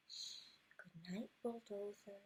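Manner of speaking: hushed whisper to the bulldozer; soft sleepy whisper; bedtime whisper. Acted. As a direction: whisper goodnight softly. Bedtime goodnight to truck.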